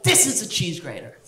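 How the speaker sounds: lightly voiced host presenting a tool; measured, settled reveal falling at the end; cooking host's reveal. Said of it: "only then would she go".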